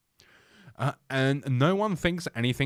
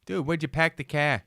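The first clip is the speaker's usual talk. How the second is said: Boston accent; 4 semitones higher than usual. Shown as a demonstration. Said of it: "Yeah, that's it".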